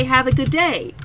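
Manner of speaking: bright polite clerk greeting; chirpy shop-counter goodbye; customer service voice. Retold or imitated. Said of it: "I was going to say".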